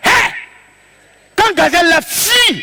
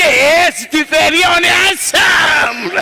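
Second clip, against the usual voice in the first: talking to the gazelle; slower than usual. Retold or imitated.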